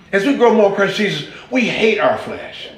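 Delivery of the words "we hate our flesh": ordinary talk, nothing marked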